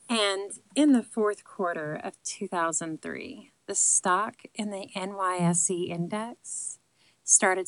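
slow, hammed-up sultry reading that fades away; mock seductive read. Reading dry finance news for viewers in a mock sexy, slow voice. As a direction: purr the stock news like a bad seduction. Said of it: "please say the following sentence as sexually ex-, sexually enticing as possible".

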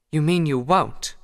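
slow, flat challenge. A narrator's reading. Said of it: "she said flatly".

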